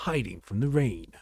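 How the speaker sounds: hushed wildlife narrator, fading to a whisper; nature documentary. Pretend. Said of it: "it sounds like a wildlife narrator".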